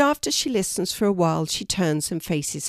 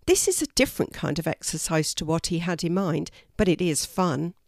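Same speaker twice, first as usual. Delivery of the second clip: ordinary delivery, nothing marked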